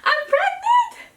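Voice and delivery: high, slow squealed announcement; excited shout. Pretend. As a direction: shout it to the world with joy. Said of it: "I just wanna scream and shout".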